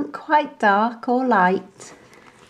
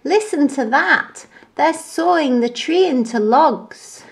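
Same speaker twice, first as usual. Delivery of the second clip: higher anxious voice; listen in alarm; worried monkey; 7 semitones higher than usual. A narrator's reading.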